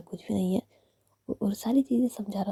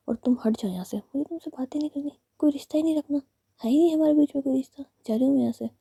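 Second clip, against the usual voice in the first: put-on angry girlfriend; 6 semitones higher, 3 dB louder than usual. Girlfriend walking out angrily.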